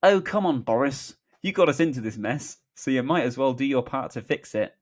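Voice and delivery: put-on eye-rolling reproach; Keir. A narrator's reading. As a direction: scold a colleague wearily. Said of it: "Keir rolling his eyes".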